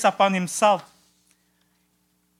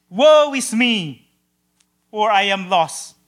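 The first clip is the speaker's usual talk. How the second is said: prophet's slow, raised lament; 5 dB louder, slower than usual. Acted. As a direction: draw out the woe in despair. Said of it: "Isaiah's reaction".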